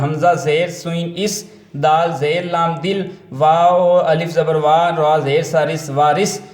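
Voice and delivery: slow, deliberate phonics drill; name each letter and mark, then the joined syllable; measured teacher's recitation, piece by piece; spelling-out demo. Shown as a demonstration. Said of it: "اس طریقے سے آپ نے".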